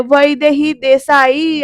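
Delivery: drawn-out teasing call of her name; joking call. Retold or imitated. Varad comes in calling for Vaidehi in jest, slow teasing call. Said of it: "असं म्हणत हसत joke केल्यासारखं".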